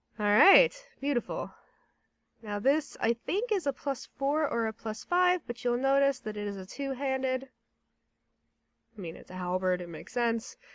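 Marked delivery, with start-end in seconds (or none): 0.2-1.5 satisfied, pleased amusement. Streaming a game right after a secret quest works, with satisfied amusement. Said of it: "(Satisfied amusement)".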